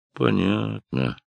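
drawn out slowly, let down; disappointed drawl. A narrator's reading. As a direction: stretch it out, disappointed. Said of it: "разочарованно протянул Ральф". (разочарованно, протяжно)

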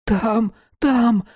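high, tearful terrified wheeze; wheezing. A narrator's reading. Dealer gives up the money, wheezing. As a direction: wheeze it out as if half-strangled. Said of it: "засипел Рублёвка".

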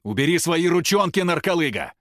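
high, loud indignant yell; angry shout. A narrator's reading. The old man yells at Рома to let go, angry. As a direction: shout him off you.

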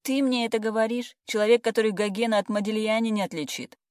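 выше и громче, с насмешкой; уколоть подругу недоверием; язвительный выпад. A narrator's reading. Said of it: "вдруг сощурилась она". (пьяная подруга язвительно огрызается)

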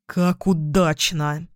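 slow sarcastic grumble; sarcastic curse. Acted. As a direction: drag out the bitter irony. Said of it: "выругался Бон". (медленно, с сарказмом)

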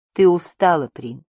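unusual gentleness. A narrator's reading. Барда to tired Прин, with unusual gentleness. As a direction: soften toward a tired companion. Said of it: "с несвойственной ему мягкостью".

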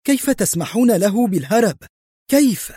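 narrated furious outburst, pitch soaring; angry outburst. A narrator's reading. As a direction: hurl the questions in rising rage. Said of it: "ثم انفجرت فجأة في غضب".

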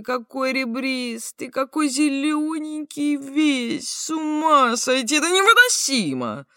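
rising near-sob of delight; hysterical excitement. Retold or imitated. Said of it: "Мужик взволнованно".

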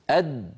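أد shut tight, no release; stopped daal. Shown as a demonstration. Teacher showing a stopped daal. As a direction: close أد firmly. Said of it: "لكن الساكنة".

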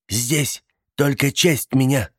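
announcing. A narrator's reading. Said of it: "объявила тётя Тильди".

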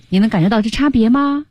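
ordinary talk, nothing marked

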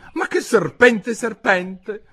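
high, loud indignant retort; high-voiced girl's indignation. A narrator's reading. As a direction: throw it back, offended. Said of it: "disse Alice indignata".

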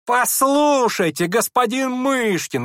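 piercing drawn-out high squeal. A narrator's reading. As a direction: squeal for attention. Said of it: "визжал Ипполит".

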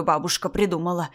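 sour, threatening repetition; mocking echo. Grandmother echoing mother's excuse, mocking. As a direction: throw the words back indignantly.

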